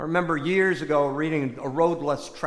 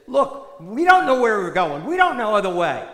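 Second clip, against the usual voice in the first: loud, worried disciple cutting in; a lightly voiced Thomas blurting out his doubt; Thomas protesting; 3 semitones higher, 6 dB louder than usual. Disciple tells Jesus they don't know the way, loud and worried.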